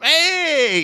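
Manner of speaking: high, loud, drawn-out whoop; retold cheer. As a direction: reenact a fan's cheer. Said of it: "and I'm going".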